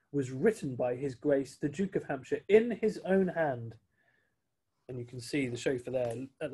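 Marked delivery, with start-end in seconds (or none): 0.1-3.7 awed and respectful. Acted. Chauffeur names the Duke's own hand, mildly awed. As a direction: speak of His Grace with reverence. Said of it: "in a voice filled with awe and respect".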